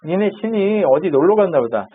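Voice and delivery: teasing singsong, pitch lifting as it goes; acted-out jeer at rivals; mock taunting. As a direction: needle them with mild mockery. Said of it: "그러니까 놀리죠".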